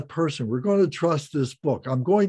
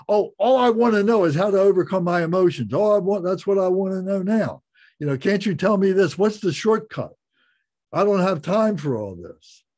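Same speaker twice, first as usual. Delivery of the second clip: higher, faster mock-impatient pleading; impatient student imitated; 4 semitones higher than usual. Teacher mimics impatient student demanding a shortcut, higher and fast. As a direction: rush it like a student wanting a shortcut. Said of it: "come to you several times and say".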